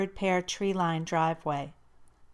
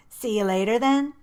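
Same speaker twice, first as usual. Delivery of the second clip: uncertain; 3 semitones higher, 7 dB louder than usual. A narrator's reading. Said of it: "Jackson asked uncertainly".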